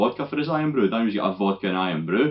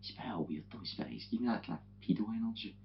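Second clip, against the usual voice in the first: much softer, half under the breath; hushed aside; 2 semitones higher, 14 dB quieter, faster than usual. Retold or imitated. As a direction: warn your pal quietly so the man won't hear. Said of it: "and Daniel's like".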